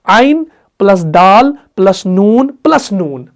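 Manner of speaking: slow, letter-by-letter spelling. Shown as a demonstration. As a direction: spell each letter slowly, plus by plus. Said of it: "लिखेंगे इसको अलग अलग".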